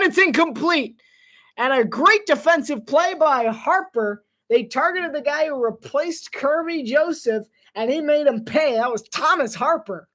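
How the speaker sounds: energetic announcer read; play-by-play. Acted. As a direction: call the fourth-down play as it happens. Live play-by-play of the fourth down.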